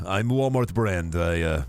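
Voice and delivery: put-on Midwestern accent. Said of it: "in a terrible Midwestern accent".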